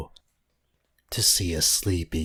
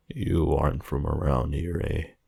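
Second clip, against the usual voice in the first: put-on thick Romanian accent. A narrator's reading. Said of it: "the man said in a thick Romanian accent".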